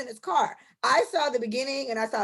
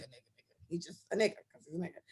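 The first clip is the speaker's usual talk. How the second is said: much softer, almost under the breath; hushed aside; 6 semitones lower, 12 dB quieter, faster than usual. Real, not acted. Explaining he is well-mannered, a hushed aside. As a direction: drop right down to a near-whisper.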